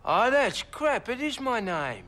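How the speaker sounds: offended witness barking back; indignant outburst. Acted. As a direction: bristle at the insult, slowly. Witness bristles at the lawyer.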